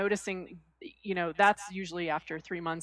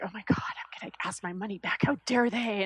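seething. Retold or imitated.

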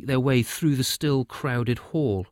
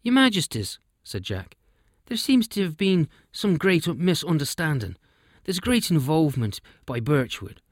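wee elf king; 6 semitones higher than usual. Acted. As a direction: pipe up like a tiny elf king arriving. Elf king bows and speaks.

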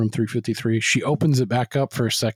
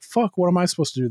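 mock flustered; 6 semitones higher, faster than usual. Retold woman left alone.

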